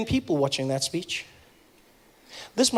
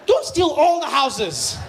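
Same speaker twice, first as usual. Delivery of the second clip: exasperated shout; 5 semitones higher, much slower than usual. Retold or imitated. Shouted advice to thieves.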